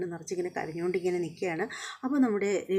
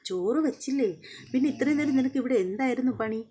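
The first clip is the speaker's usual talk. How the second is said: higher, sharp retold scolding; annoyed demand; 6 semitones higher than usual. Sachi scolds Revathi for not cooking, mock irritated. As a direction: demand what she did all this time. Sachi finds no rice cooked.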